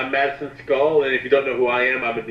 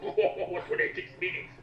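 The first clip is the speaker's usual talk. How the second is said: wheezing laugh, very high and slow; breathless laughing; 6 dB quieter, slower than usual. Real, not acted. Friend repeats the line, helpless with laughter. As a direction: lose it laughing on the words.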